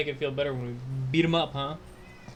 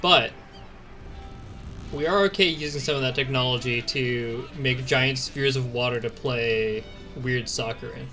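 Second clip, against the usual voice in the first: mocking quote; slower than usual. Mocking the church's logic.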